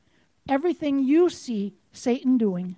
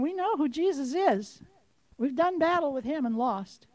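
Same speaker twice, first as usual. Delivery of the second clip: softer, subdued spirit voice; quiet admission; 6 dB quieter than usual. Acted. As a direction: concede it quietly.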